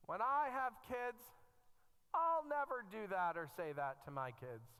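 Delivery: mock youthful vow. Parents recalling their youthful vow, loud mock oath. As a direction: swear it like a defiant kid.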